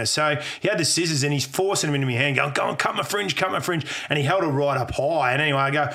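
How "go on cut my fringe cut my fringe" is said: higher-pitched imitation of an insistent schoolmate; acted-out schoolboy badgering; mock pestering. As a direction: egg him on like a nagging kid. Mate pestering him in the story.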